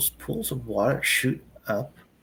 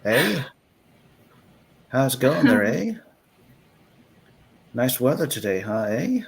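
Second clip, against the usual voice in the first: cheery exaggerated Canadian small talk, eh; louder mock Canadian greeting; mock Canadian accent; 4 dB louder than usual. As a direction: play up a Canadian accent for a joke. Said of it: "my stupid Canadian accent".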